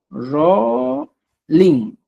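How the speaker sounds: coaxing pet-name Rolling; sweetened name. Shown as a demonstration. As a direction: say Rolling tenderly, ending in a nasal ng. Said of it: "para darle dulzura a esta expresión".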